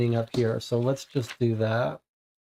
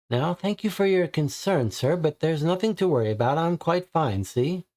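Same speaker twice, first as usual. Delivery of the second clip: higher lady's voice, polite but firm; polite dismissal; 4 semitones higher than usual. Acted. Lady sending the visitor away at the door, in a higher, forced polite voice. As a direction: shoo him off with forced courtesy.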